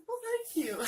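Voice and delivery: high, loud flattered squeak; mock flattered thanks. To nurse praising her heart, high flattered thanks.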